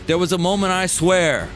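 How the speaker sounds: ordinary delivery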